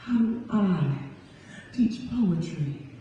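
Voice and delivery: slow, weighty final lines; slow closing question. Acted. Poet asking the crowd directly, slow and deliberate. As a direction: land each word slowly, then let it fade.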